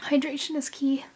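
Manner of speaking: soft unvoiced whisper. Real, not acted. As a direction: whisper it, hungover. Hungover, whispering to camera.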